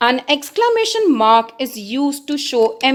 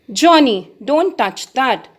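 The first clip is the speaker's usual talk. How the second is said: stern warning. Shown as a demonstration. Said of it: "We have used exclamation mark".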